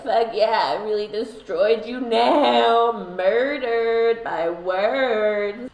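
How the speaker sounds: a hammed-up troll crowing over a burn; gloating troll. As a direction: stretch out the victory like a smug troll. The speaker as gloating internet troll.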